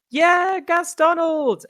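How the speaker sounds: very high, slow, loud cheer; cheering dwarf. Acted. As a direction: cheer him on like a gruff dwarf fan.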